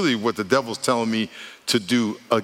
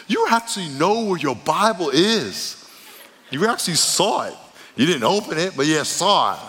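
mock praise; 5 semitones higher than usual. Mock praise continues, easing off.

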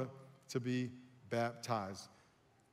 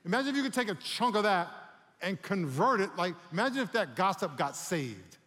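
raised, higher preacher's voice, pressing the point; forceful preaching; 4 semitones higher, 5 dB louder than usual. Real, not acted. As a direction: preach it to the congregation with mounting energy.

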